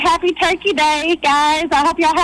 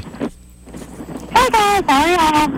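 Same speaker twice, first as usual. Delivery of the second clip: muffled speakerphone in the wind; wind tunnel sound; 3 semitones higher, slower than usual. Real, not acted. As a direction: caller on a windy speakerphone. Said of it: "You sound like you're in a wind tunnel".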